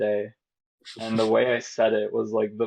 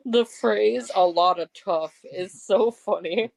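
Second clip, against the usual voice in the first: laughing; 10 semitones higher, 3 dB louder, slower than usual. Real, not acted. Friend's odd phrase sets her laughing.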